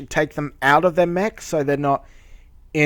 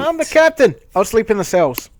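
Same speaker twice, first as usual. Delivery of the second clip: mocking captain voice; 6 semitones higher, 3 dB louder than usual.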